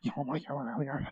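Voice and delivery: put-on ranting internet voice; mock angry commenter. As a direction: rant like an outraged fan, hammed up. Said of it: "just type it up. Like".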